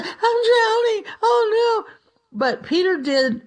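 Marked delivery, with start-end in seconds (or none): 0.0-1.9 high crying panic, acted out; mock drowning cry. Preacher acting out Peter sinking, crying in mock panic. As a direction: cry out like a man going under.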